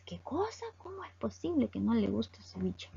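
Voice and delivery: understated disbelief; mock surprise. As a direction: act taken aback, without raising the volume. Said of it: "lo que nosotros expresamos es sorpresa".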